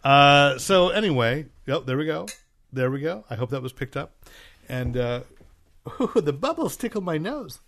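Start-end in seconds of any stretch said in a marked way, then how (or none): 5.9-7.6 laughing. Real, not acted. Sipping champagne, bubbles tickle.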